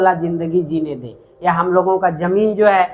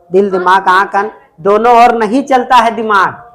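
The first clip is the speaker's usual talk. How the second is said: scolding the class; 3 semitones higher, 6 dB louder than usual. Real, not acted. Teacher scolding students for writing.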